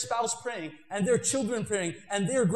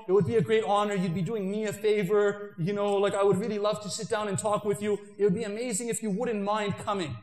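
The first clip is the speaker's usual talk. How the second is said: very nicely. Pretend. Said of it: "you'll speak to him very nicely".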